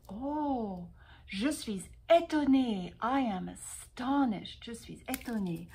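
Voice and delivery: mock surprise, a touch of wonder; astonished. Shown as a demonstration. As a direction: act out being astonished for students. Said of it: "that goes like this". (démonstration d'étonnement)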